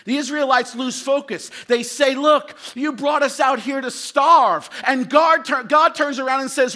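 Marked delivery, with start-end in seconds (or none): 2.2-4.7 loud, slow accusing shout; grumbling complaint. Retold or imitated. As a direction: hurl the complaint at God. Israelites complaining to God.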